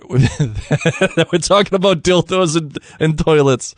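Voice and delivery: giggling through the words, slowly; can't get it out for laughing. Real, not acted. Host cracking up over the episode's dildos, laughing slowly. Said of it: "I don't know why I'm laughing so hard".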